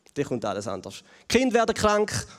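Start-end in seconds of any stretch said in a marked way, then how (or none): 0.1-1.0 quiet, foreboding afterthought; hushed, ominous echo. Shown as a demonstration. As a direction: drop much softer and lower on the repeat. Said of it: "Und dann kommt alles anders".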